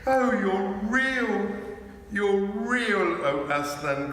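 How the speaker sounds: overjoyed disbelief, voice lifting; Lucy flinging herself on Aslan in relief; joyful cry. A narrator's reading. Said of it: "cried Lucy".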